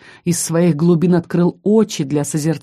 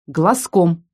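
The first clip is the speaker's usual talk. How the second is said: warning; 3 dB louder, much slower than usual. Acted. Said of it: "предупредила я".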